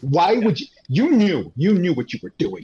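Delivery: high, loud mock accusation; playful high-pitched outrage at the guest. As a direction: pile on him in hammed-up indignation. Mock-accusing the guest over the quote.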